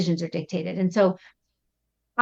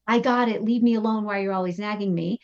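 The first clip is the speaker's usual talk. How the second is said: irritated reply; faster than usual. Retold or imitated. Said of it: "This one is".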